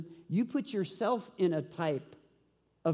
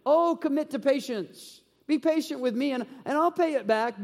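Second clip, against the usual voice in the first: begging servant; 5 semitones higher than usual. Acted. Fellow servant begs on his knees, raised pleading. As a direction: plead on your knees for time. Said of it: "begged him".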